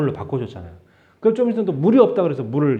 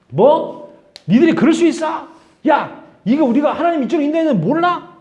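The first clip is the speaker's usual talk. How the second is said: higher and louder, exasperated scolding; indignant retort; 10 semitones higher, 5 dB louder than usual. Pretend. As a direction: snap back at the crowd in disbelief. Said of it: "이렇게 구구절절하게 설명하려고 하지 않았어요".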